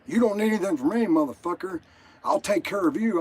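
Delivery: half-hearted replay of yelling from the porch; retold yelling. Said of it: "I started yelling".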